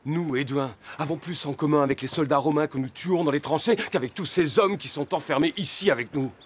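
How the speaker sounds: plus haut et plus fort, avec véhémence; s'emporter contre son père; colère montante. Acted. Dispute entre père et fils. (le fils s'emporte contre son père, voix haussée)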